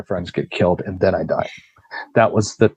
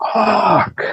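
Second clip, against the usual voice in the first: retold scream; 11 semitones higher than usual. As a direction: yelp it as the knee lands. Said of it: "and I just scream".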